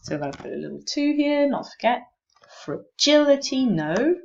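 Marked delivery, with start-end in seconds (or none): 2.6-3.7 "Fragility" with "gil" punched high and loud; stressed vowel demo. Shown as a demonstration. Teacher pointing out the stressed vowel, stress demo. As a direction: hit the second syllable of "Fragility" hard. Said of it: "This is the stressed vowel".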